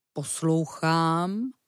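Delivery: stretched slowly with a rising end; very slow drawn-out. Acted. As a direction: bear straining to hear, dragging it out. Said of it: "zastavil se medvěd".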